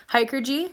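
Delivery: Hiker G, tried out with a questioning lift; unsure pronunciation attempt. Shown as a demonstration. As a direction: try saying "Hiker G" as if checking it. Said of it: "I can't never say that right".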